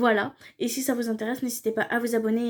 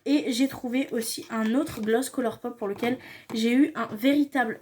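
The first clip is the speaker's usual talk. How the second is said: usual speaking voice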